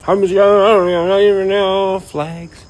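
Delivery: hammed-up slow drawl of a confused redneck; mock dumb redneck. Mocking drunk rednecks who don't know flags, slow and loud.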